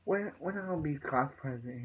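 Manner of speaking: mildly cocky, imitating a dismissive teen; cocky retort. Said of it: "He's just, like, cocky".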